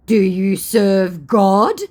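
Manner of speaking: mock pious challenge. Scammer challenging her about serving God, slow mock solemnity. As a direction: intone it grandly as the scammer.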